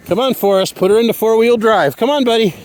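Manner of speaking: high, eager coaxing call; encouraging call. Real, not acted. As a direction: cheer him on through the snow. Coaxing Forrest along the trail.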